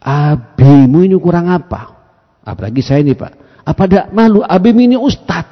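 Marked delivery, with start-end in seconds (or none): 0.0-1.9 mildly harsh, drawn-out parental reproach; acted-out rough telling-off; mock harsh scolding. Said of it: "Tapi kalau sampean kasar". 3.6-5.5 raised, higher parental reproach; acted-out indignant telling-off; mock harsh scolding. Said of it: "Tapi kalau sampean kasar".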